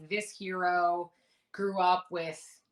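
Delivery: slow, deliberate reading of a clue; quoting the written clue slowly. Retold or imitated. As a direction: spell out the clue word by word, slowly. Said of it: "It said something like".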